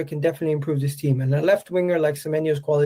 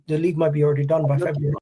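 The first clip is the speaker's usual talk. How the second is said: brash boast; faster than usual. Real, not acted. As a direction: blurt it out with swagger.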